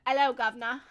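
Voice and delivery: mock British accent with a laugh. Streamer showing chat her fake British accent, laughing. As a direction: badly fake a cheeky British greeting. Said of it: "if I can do his accent".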